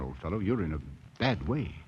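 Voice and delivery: quiet reassuring tone; gentle. Acted. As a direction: soothe the broken man. Comforting a broken man.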